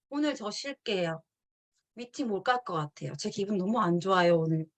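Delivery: half-hearted glum call-in, mildly imitated; sulky excuse. Member calling sponsor to skip meeting, mock glum. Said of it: "이런 얘기 많이 해보셨나요".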